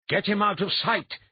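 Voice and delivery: loud, high, urgent command; barked order. A narrator's reading. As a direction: bark it out sharply. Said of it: "he barked at Elia".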